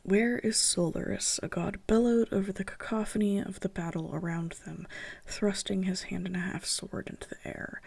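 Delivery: even read-aloud of a fantasy battle scene; measured storytelling read; story narration. Acted. Reads own story draft aloud.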